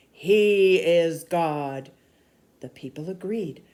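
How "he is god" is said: booming, very slow and louder; thundering declaration. Acted. Elijah proclaiming to the crowd, booming slowly. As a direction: let it thunder out. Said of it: "Elijah thundered".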